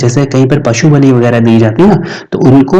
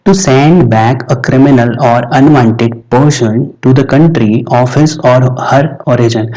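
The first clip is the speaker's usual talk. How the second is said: slow dictation reading; much slower than usual. Shown as a demonstration. Teacher dictating a vocabulary definition to students, very slow. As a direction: read the English definition out very slowly. Reads English definition slowly.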